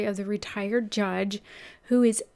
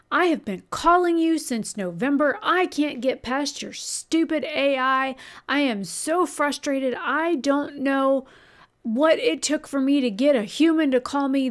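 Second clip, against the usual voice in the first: louder, higher, imitating a furious caller; retold angry rant; 4 semitones higher, 4 dB louder than usual. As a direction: act out the angry customer's complaint, raised and pushed. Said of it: "was super pissed off".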